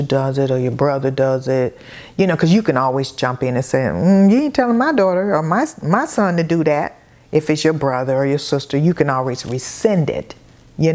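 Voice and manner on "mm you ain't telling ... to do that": sassy comeback. Retold or imitated. Jumping in to defend her kids.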